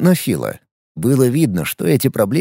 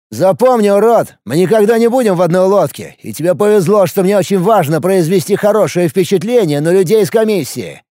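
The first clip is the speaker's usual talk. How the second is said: angry threat; 5 semitones higher than usual. Acted. Phil threatens the narrator.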